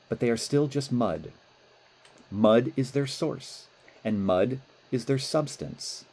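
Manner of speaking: calm parable narration; story reading. Acted. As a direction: read the parable gently.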